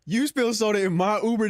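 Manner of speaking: lightly voiced indignant driver; mock angry driver. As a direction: play the offended driver, half-hammed. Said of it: "It said".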